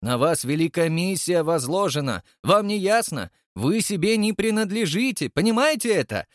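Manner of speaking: high-pitched, heated scolding; angry tirade. A narrator's reading. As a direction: berate him in an outraged, high voice. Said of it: "в гневе председатель". (гневная отповедь на высоких тонах)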